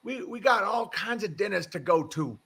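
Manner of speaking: put-on Southern accent. Host retelling the neighbor's answer to a dinner invitation, Southern accent. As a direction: imitate an elderly Japanese man's Southern accent. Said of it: "Japanese guy with that accent".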